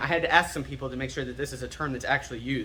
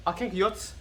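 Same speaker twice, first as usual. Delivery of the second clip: "kenkayotsu" squashed together, higher pitched; said really quickly; 5 semitones higher than usual. Acted. Teacher acting how the Japanese say it, quick blurred pronunciation. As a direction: toss off "kenkayotsu" fast, vowels swallowed. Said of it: "the Japanese say it really quickly".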